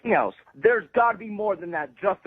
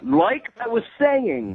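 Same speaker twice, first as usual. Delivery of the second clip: pointed, slow; much slower than usual. Real, not acted. Customer restarts complaint again.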